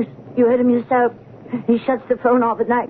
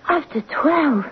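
surprised echo; 4 semitones higher, slower than usual. Acted. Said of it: "I can't believe it".

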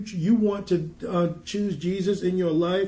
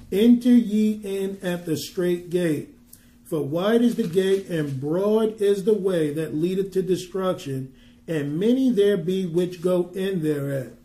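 scripture reading; 3 dB louder than usual. Acted. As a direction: proclaim the verse deliberately. Reads scripture aloud.

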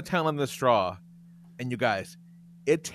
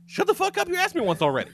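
mock parent snap; faster than usual. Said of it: "you say".

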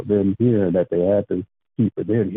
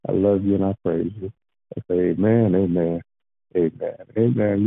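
prayer. Acted. Pastor closing the prayer line with thanks, earnest prayer voice. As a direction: pray it out, sincere and steady.

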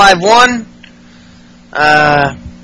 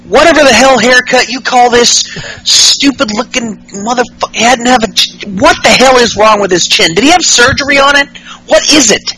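mock rant; 5 semitones higher than usual. Styles voiced insulting Ellsworth.

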